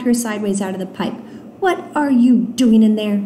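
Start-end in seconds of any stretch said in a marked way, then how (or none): 1.6-3.2 loud, exasperated demand; scolding. Acted. Alex finding Nunu in the pipe, scolding. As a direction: scold with a mildly raised voice. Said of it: "Are you yelling at me?".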